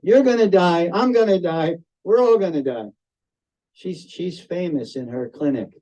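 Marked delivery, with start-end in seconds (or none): 0.0-2.9 blunt wife. Retold or imitated. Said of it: "she laughs at them".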